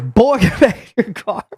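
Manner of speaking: mock a blustering Southern lawman giving orders; hammed-up booming command; Foghorn Leghorn. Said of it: "he's Foghorn Leghorn as a human".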